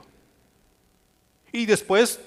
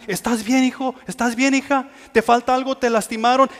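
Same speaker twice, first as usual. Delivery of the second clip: put-on higher, anxious checking over a found child; parent's worried questions; 5 semitones higher than usual. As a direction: ask like a frantic parent. (padre preocupado, voz más aguda)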